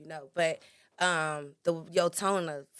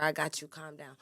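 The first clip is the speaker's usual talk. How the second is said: calm delivery; 2 semitones lower than usual. Shown as a demonstration. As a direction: reassure your partner in an even, unforced voice. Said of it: "It's all about your delivery".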